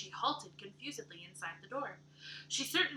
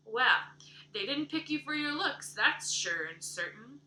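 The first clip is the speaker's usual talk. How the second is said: blunt, emphatic verdict, slowing at the end; 3 semitones higher, 5 dB louder than usual. Acted. Missus Rachel sizing up the orphan girl, emphatic. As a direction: lay it down as plain fact. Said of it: "emphatic compliment".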